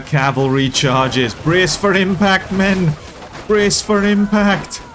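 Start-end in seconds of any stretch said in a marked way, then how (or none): 1.3-2.9 battle command. Acted. Commanding troops as cavalry charges. 3.5-4.8 battle command. Acted. Repeating command as cavalry hits.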